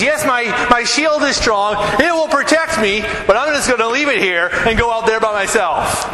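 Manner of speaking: a hint of a proud warrior showing off; boastful soldier.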